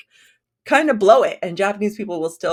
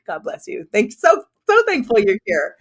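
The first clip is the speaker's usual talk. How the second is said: grateful; 5 semitones higher, 5 dB louder than usual. Retold or imitated. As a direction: gush with relieved gratitude. Greeting those who show up live.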